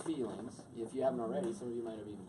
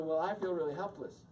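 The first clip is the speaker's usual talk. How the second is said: wife confiding; 5 semitones higher, 5 dB louder than usual. Shown as a demonstration. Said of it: "And then she'd go".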